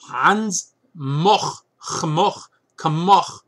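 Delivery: mock German, throaty ch in "Moch"; phlegmy German accent. Book reviewer guessing at an author's name, phlegmy mock German accent. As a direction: try out "Kmoch" with a phlegmy final ch. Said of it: "I'm sure it's phlegmy".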